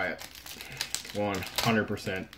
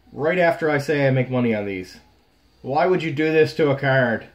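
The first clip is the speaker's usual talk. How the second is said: louder, indignant complaint; exasperated rant; 3 semitones higher, 5 dB louder than usual. Real, not acted. Collector ranting at the card maker, loud and indignant. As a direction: vent at whoever packed it. Card ruined while opening pack.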